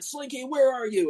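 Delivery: play-acted yelling call, very high. Describing a clip of a nasty toy yelling for Slinky: imitating a yelling toy. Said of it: "he's like yelling at Slinky".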